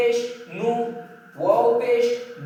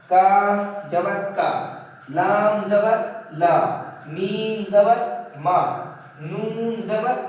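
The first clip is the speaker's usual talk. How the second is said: measured Quran-class recitation, long vowels drawn out; teacher's slow spelling-out; Arabic letter drill; slower than usual. Shown as a demonstration. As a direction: chant each letter with its vowel, pausing before the syllable.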